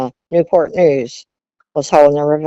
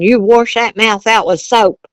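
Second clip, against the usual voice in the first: stern father; 6 semitones higher, 5 dB louder than usual. Retold or imitated. Father punishing daughter.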